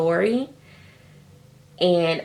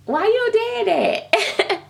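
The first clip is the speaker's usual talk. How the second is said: much higher, slow, drawn-out question; baffled disbelief; 12 semitones higher, much slower than usual. Retold or imitated. To the rude sculptor, slow high disbelief. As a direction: stretch it out in shocked disbelief. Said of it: "I was like".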